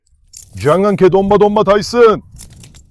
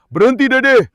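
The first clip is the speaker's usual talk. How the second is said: sharp command; 5 semitones higher, slower than usual. Real, not acted. Stopping dog mounting.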